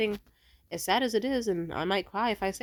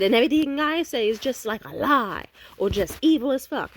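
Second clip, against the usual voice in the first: high, loud mock-offended whine; sarcastic whine; 6 semitones higher, 6 dB louder than usual. Ex mocking her, high loud offended sarcasm. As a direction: act wounded and sarcastic. Imitating ex's sarcastic retort.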